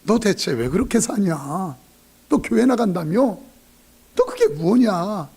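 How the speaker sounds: drawn-out mock disbelief; scornful retold jeer. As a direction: needle them slowly, as a scoffing relative. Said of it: "웃어".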